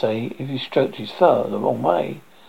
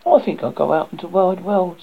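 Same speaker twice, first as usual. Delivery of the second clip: resolute duckling; 4 semitones higher than usual. Acted. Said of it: "said the duckling".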